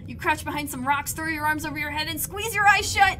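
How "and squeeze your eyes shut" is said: tense. A narrator's reading. Tense narration climax.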